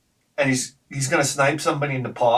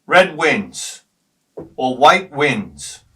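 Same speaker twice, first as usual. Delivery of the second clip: referee call; 5 dB louder, much slower than usual. Retold or imitated. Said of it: "And he'd be like".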